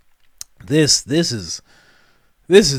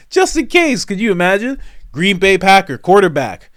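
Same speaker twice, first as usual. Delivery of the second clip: mock excited; 8 semitones higher, 7 dB louder than usual. Acting out own excited search.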